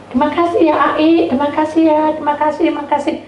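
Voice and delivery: high-pitched gushing gratitude; effusive thanks. Retold or imitated. Guest thanking after prayer, high gushing voice.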